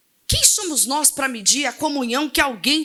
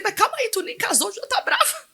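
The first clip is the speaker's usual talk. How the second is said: teasing; 9 semitones higher than usual. Retold or imitated. Pastor teases the angry bride.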